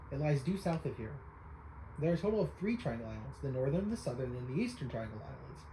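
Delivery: lightly voiced old sage, spooky tale; old storyteller voice. Voicing the islander telling young Link a spooky legend, lightly hammed. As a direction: spin the ghost-ship legend with relish. Reads NPC lines in voice.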